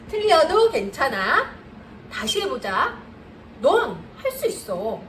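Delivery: slow, steady words of encouragement. Shown as a demonstration. Tutor leading mothers to repeat the phrases, slow and kind. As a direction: say it slowly, like you believe in the child. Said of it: "우리 같이 한번 할까요?".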